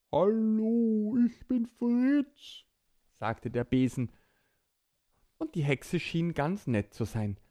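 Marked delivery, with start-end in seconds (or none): 0.1-2.6 slow, slightly raised broom voice; talking broom voice. Acted. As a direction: play a cheerful talking broom. Broom speaks.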